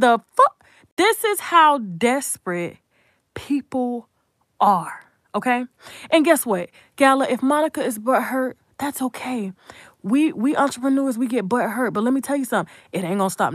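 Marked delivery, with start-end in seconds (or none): 0.0-0.6 shocked exclamation. Retold or imitated. Retold shocked reaction. 8.8-9.5 unvoiced, softer dismissive aside; breathy throwaway whisper. Real, not acted.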